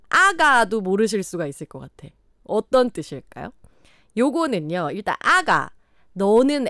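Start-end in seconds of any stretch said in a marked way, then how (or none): none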